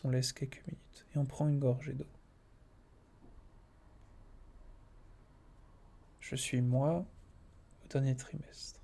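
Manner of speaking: meditation voice. Acted. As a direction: guide them inward gently. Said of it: "une petite voix de méditation".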